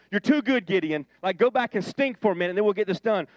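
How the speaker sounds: brighter, punchier retelling of the line; lightly voiced God. God brightly tells Gideon he's too good. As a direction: toss off God's words with a grin. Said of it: "that's what he said".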